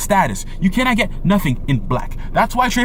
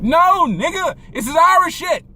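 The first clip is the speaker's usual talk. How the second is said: emphatic retort; 7 semitones higher, slower than usual. Real, not acted. Rebutting the quoted view.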